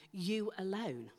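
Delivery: You alone, slow and weighty; stress on alone. Shown as a demonstration. Preacher explaining the Greek, slow emphatic you alone. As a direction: give You alone full weight, slowly. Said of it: "the Greek sense of the word says".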